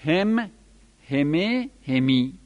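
هم then همه then همی, each said separately as a distinct variant; pronunciation demo. Shown as a demonstration. Teacher listing variant readings to students, careful pronunciation. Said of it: "دو لغت دیگر دارد".

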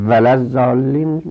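ولزالین said slowly as the mistaken reading; mocked wrong form. Shown as a demonstration. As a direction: drawl out ولزالین as the error to avoid. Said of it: "غلط است".

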